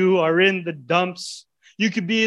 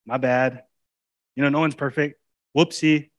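mock flippant apology. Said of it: "Or is it just simple".

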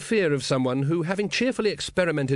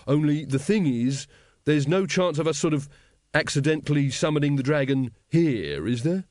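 hesitant cult member; nervous doubter; 2 semitones higher than usual. Acted. Brother Doorkeeper asks the master about accidents, nervously. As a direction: raise a doubt gingerly.

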